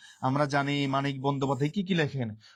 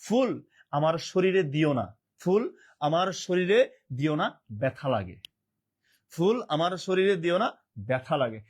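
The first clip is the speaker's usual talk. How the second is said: poem recital. Shown as a demonstration. Teacher reciting a satirical poem about a poet's funeral flowers, slow and mournful. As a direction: recite it slowly and let the pain sink in at the end. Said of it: "একটা কবিতা লেখে".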